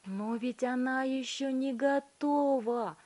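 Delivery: high, slow begging; pleading Wonka. A narrator's reading. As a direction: plead with her in distress. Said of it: "взмолился Вилли Вонка".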